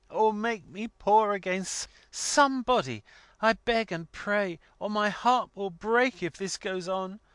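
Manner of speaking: put-on high-pitched, distraught young woman pleading; acted weeping outburst, high and imploring; passionate tearful cry. A narrator's reading. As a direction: beg desperately through tears, voice pitched right up. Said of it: "incoherent passion of tears".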